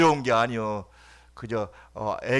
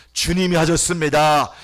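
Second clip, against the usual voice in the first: louder second take; 2 semitones higher, 5 dB louder than usual. Acted. Pastor repeating to congregation, 주님이 lifted and louder. Repeated phrase, soft then loud.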